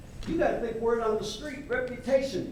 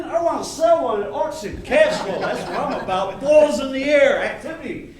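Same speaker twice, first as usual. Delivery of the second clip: laughing excitedly; 5 semitones higher, 9 dB louder than usual. Real, not acted. Agent gushing about money.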